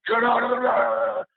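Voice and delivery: high, drawn-out mock yell; retold yell. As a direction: yell it long like a bullying counselor. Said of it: "is just screaming at him".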